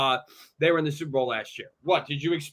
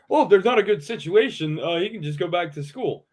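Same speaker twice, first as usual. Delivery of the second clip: mock the quote in a raised, incredulous voice; higher-pitched scornful parroting; 3 semitones higher, 3 dB louder than usual. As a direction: throw his words back at him mockingly. Mockingly repeats the father's quote.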